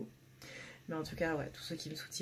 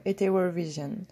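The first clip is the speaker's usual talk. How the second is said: English name in a French accent; 6 dB louder than usual. Real, not acted. Presenting her new deck, saying the name in a French accent. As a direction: read Eteworld Vision in a French accent, each syllable said the French way. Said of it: "Avec mon accent absolument fabuleux".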